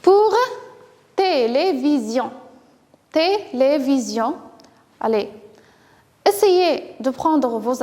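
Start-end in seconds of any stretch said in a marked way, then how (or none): 1.2-2.3 "télévision" measured out, té - lé - vision; split into syllables. Shown as a demonstration. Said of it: "essayez de trouver la place du son". 3.1-4.4 "Télévision" with small breaks, té - lé - vision; split into syllables. Shown as a demonstration. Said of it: "essayez de trouver la place du son".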